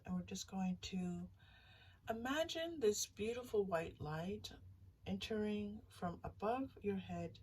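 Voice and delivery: slow, soothing visualization voice; guided meditation. Acted. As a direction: guide them gently into the light, slowly. Leads a visualization.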